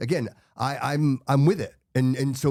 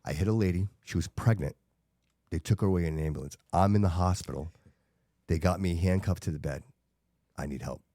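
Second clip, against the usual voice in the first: muffled phone voice; 5 semitones lower, 5 dB quieter than usual. Retold or imitated. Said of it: "he sounds kinda muffled".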